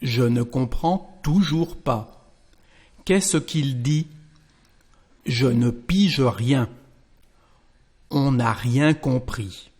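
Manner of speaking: careful French lesson reading; French dialogue lines. Shown as a demonstration. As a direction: clear French practice reading.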